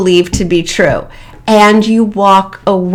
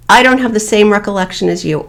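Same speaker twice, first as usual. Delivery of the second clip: neutral, no anger; faster than usual. Shown as a demonstration. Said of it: "No emotion, no anger, no accusation".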